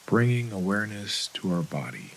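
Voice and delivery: calm, unhurried meditation guide with long pauses; guided meditation. Acted. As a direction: gently lead them into breath and body, leaving space between phrases.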